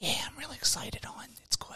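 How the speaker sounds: secretive whisper, barely voiced, very soft. Retelling a phone call to mom after the Super Bowl, imitating mom whispering. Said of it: "why are you whispering?".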